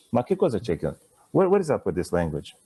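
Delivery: exasperated learner in a hammed-up Italian accent; sing-song bad Italian accent, baffled by English. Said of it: "That's my bad Italian accent".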